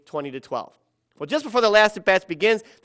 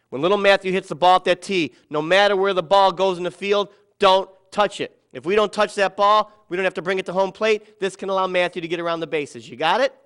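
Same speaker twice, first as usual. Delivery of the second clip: coach's huddle orders; 5 dB louder than usual. Retold or imitated. Coach instructs team in huddle.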